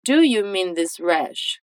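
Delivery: slow, careful full question; slow correct form. Shown as a demonstration. Teacher models the grammatical version slowly. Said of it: "O mais correto, gramaticalmente falando".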